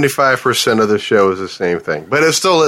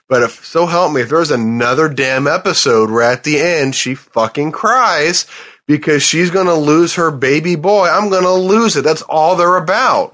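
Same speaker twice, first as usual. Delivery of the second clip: higher, heated complaint about the show; exasperated rant; 5 semitones higher than usual. Real, not acted. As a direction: vent it, half joking but fed up.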